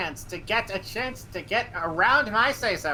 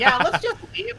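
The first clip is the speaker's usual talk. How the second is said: mock casual quip; 10 semitones higher, 4 dB louder than usual. Retelling decision to flee CIA.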